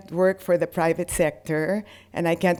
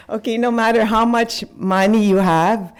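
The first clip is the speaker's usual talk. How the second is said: laughing; 3 semitones higher, 3 dB louder than usual. Real, not acted. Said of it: "why am I getting emotional now".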